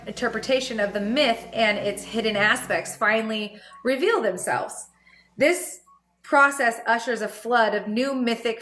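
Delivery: measured reading of a spiritual text; calm book reading; reading a text aloud. Acted. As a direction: read it out steadily like a passage. Reads book passage aloud.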